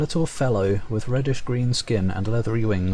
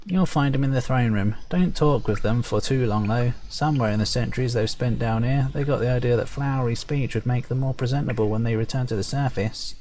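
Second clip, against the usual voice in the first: lightly raised perky sprite voice; a bit higher, chirpy gossip. Acted. Sprite warning about the Fomorians' flowery speech, lightly perky. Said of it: "perky, high-pitched voice".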